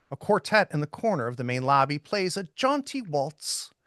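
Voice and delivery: measured, descriptive narration; game master's scene setting. Acted. Game master sets the department store scene for players, narrating descriptively. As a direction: read the scene out like prose, phrase by phrase.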